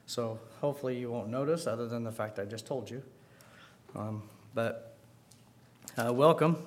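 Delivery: talking around gum; chewing gum. Real, not acted. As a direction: gum in the mouth while speaking. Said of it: "I do have gum in my mouth".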